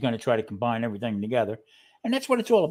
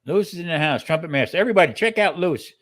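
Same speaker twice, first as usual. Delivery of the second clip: hyped shout-out; 4 semitones higher, 5 dB louder, faster than usual. Real, not acted. Shouting out a viewer.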